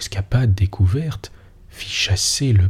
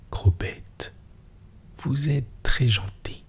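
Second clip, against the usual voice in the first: smiling; 5 semitones higher, 7 dB quieter, slower than usual. A narrator's reading. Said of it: "Elle sourit".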